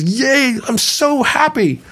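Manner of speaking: put-on very high, squealing child's cheer; excited little boy. Optimistic boy cheering at the manure barn, very high and thrilled. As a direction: squeal with delight like a five-year-old. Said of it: "He's so excited".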